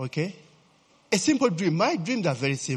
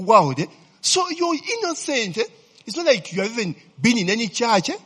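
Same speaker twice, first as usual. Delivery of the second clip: higher pitched, slowed, pleading protest to God; mock complaint to God; 7 semitones higher, 6 dB louder than usual. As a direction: plead with God, half laughing at your younger self. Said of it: "Man, I started saying".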